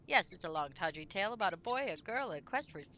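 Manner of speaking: sly rodent herald, mock-grand and warning; talking rat voice. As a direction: warn the hero like a cunning rat. Voicing rat's dialogue again.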